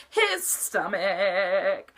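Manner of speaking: very slow, laughing through the words; his stomach melting into giggles; his stomach drawn out through a laugh. Real, not acted. Punchline dissolving into laughter.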